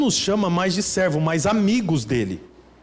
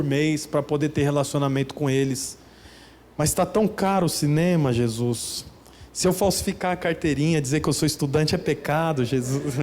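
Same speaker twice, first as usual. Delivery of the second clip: casual friendly prayer; 3 semitones lower than usual. Shown as a demonstration. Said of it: "Por que que eu não posso falar com Deus".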